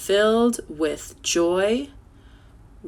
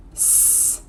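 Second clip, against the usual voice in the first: whisper; 6 dB quieter than usual. Shown as a demonstration. Teacher whispers spelling.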